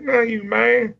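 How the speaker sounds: very high put-on protest; Slick. Wrestler rejecting the little brother, high mock-annoyed voice. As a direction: mimic the wrestler's high-pitched brush-off. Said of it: "He's like".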